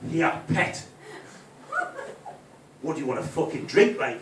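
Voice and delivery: mock hard-man snarl in a put-on accent. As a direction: snarl it like a fake tough Geordie. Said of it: "snarl at her".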